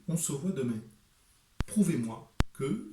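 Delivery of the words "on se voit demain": «on se voit demain» in a southern French accent, «se» and «demain» given a full open vowel. Shown as a demonstration. Author contrasting it with Paris, southern French accent.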